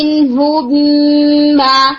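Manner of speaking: mim closed fully with pressed lips; ہونٹ دبا کر صاف میم; clear mim demo. Shown as a demonstration. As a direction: press the lips firmly on مِن. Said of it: "جیسے آپ بولتے ہیں نا".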